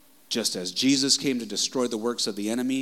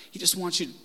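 higher, choked-up plea that breaks off; emotionally wrecked; 7 semitones higher, much faster than usual. Real, not acted. Preacher overcome by the father's heart, close to tears. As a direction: try to get it out without crying. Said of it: "just kinda wrecks me".

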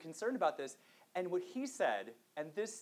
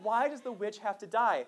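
mock childish protest, raised and louder; imitated crying child; 5 semitones higher, 6 dB louder than usual. Father imitating his tearful son at story time, higher, louder wail. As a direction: imitate an upset child's plea without real sobs. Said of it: "He's crying, and, like, he's like".

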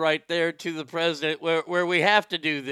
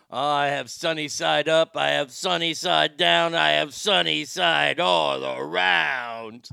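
hammed-up bad Austrian accent, drawn out at the end; a clumsy Austrian accent, stretched slow on the last line; terrible Austrian accent; slower than usual. Joking to the stream in a bad Austrian accent. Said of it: "That was a terrible Austrian accent".

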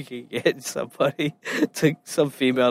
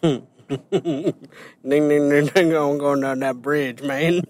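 put-on Boomhauer accent; slower than usual. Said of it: "would fit in on King of the Hill".

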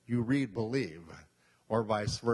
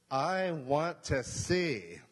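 slow plea; 3 semitones higher, much slower than usual. Acted. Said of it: "Pretty good, huh?".

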